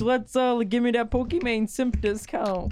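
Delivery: mock Irish accent begging for a discount; terrible Irish accent. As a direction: ham up a bad Irish brogue, slowly and high. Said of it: "putting on a terrible Irish accent".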